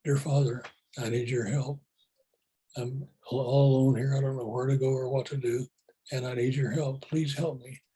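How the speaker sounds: gently spoken model prayer, barely set apart from his own voice; a lightly voiced sample prayer to God; simple prayer. Shown as a demonstration. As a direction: show him how to pray, in a humble, plain way. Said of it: "Like this".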